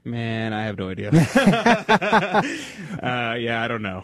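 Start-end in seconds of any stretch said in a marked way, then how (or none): 1.1-2.9 loud open laugh; hearty laugh. Real, not acted. Host laughing at his own ignorance, loud. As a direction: burst out laughing.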